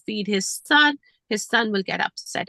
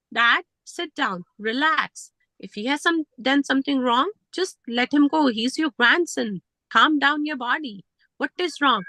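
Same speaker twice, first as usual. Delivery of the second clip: calm soothing; 3 semitones higher than usual. Retold or imitated. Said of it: "calm tone of voice".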